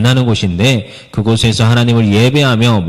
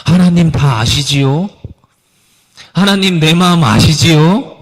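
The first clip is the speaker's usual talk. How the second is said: slow, higher, hesitant little prayer; a pastor imitating a child's hesitant prayer, slow and higher; timid childish prayer; 4 semitones higher than usual. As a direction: pray like an unsure child, slowly. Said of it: "이렇게 기도할 때가 있었다".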